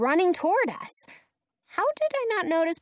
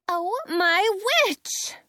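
rising high exclamation; exclaiming; 8 semitones higher, slower than usual. Acted. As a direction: burst out in shock. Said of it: "Penny exclaims".

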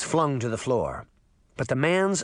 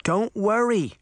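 eager cry; 7 semitones higher than usual. Acted. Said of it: "Daphne cried".

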